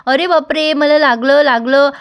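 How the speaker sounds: mock cry of being hurt; feigned pain. Appu faking a sprain to tease Sumi, mock-pained. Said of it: "त्रास होतोय म्हणून नाटक करायला लागते".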